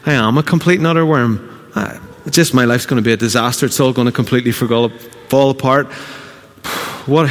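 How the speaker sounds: inner doubting voice. Retold or imitated. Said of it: "inside you go".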